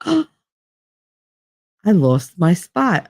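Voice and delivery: mock gasp, then slow lament; melodramatic dismay. Brother losing his spot to the baby, mock melodramatic. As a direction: gasp and draw out the hammed-up hurt. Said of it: "he was so melodramatic about it".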